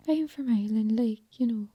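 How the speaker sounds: failed Irish accent, sounding Welsh; Irish accent gone Welsh. Shown as a demonstration. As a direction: attempt Irish but drift into Welsh. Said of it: "No, that's Welsh".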